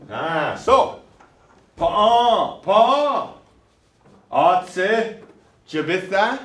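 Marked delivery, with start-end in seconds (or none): 1.8-6.4 loud, clear model of "pa'a, atsu, jabitha"; teacher says "pa'a" and "jabitha" slowly and loudly for the class to repeat; slow model words. Shown as a demonstration. Teacher models "pa'a, atsu, jabitha" loudly for students to copy. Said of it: "Ah, say it".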